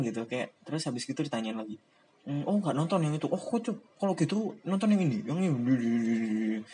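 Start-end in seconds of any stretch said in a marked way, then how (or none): 2.2-6.6 pushy fan. Retold or imitated. Stranger pushing more anime.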